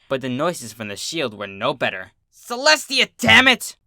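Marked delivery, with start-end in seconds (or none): 2.3-3.8 shrill furious curse, much higher and louder; cursing. A narrator's reading. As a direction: spit out the curse in rage. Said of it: "she cursed".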